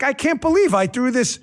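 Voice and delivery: rising indignant falsetto of a wife; imitating annoyed wife. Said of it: "she's like".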